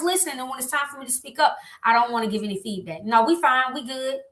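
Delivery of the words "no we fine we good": dismissive. Retold or imitated. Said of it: "And I'm dismissive".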